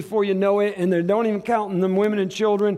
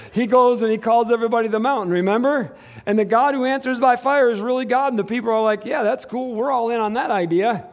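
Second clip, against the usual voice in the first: higher, driving preacher's retelling; energetic preaching; 5 semitones higher, 4 dB louder than usual. Real, not acted. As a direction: tell it from the pulpit, voice raised. Preacher retells mountain showdown.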